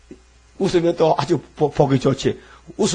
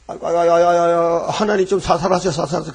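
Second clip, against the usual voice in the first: mock wailing Adam. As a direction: play Adam wailing to God. Adam wailing as God shapes him. (아담이 징징대며 아이고 하는 흉내)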